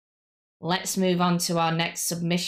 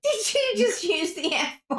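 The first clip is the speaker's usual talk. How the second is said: surprised; 14 semitones higher than usual. Real, not acted. Shocked at cohost's swearing.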